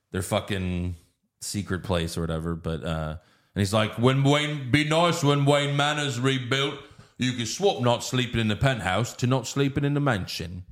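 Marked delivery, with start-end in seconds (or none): 4.0-10.6 lightly voiced Alfred.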